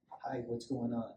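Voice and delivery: calm greeting. Shown as a demonstration. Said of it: "I just talked to them like that".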